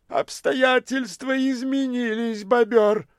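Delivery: высоко, медленно, бобёр громче; огрызнись свысока; дерзкая бомжиха. A narrator's reading. (бомжиха отбривает бомжа, дерзко)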